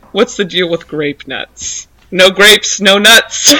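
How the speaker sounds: mock stand-up bit with a loud punchline; hammy joke-telling, punching the short phrases; stand-up delivery.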